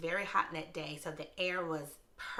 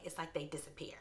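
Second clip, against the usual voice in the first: whisper; 7 dB quieter than usual. Acted. Whispered aside about vanishing staff.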